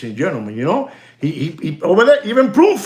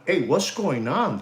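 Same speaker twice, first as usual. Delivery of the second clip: casual greeting; 4 semitones lower, 7 dB quieter than usual. Shown as a demonstration. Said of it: "and you tell them".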